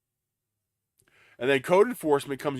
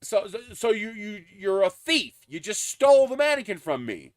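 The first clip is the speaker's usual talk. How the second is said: raised, accusing rant; indignant; 5 semitones higher than usual. Real, not acted. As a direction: call him a thief with heat. Scolding the absent thief.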